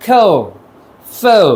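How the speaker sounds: "খেল, ফেল" with a faint final L; light final L. Shown as a demonstration. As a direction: rhyme "ফেল" with "খেল", L barely touched. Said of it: "এরকম উচ্চারণ".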